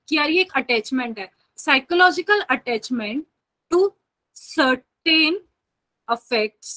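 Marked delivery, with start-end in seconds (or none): 1.6-6.7 slow, spaced-out dictation with long pauses. Acted. Teacher dictating a definition to her students, slow and spaced. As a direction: spell the definition out word by word for note-taking.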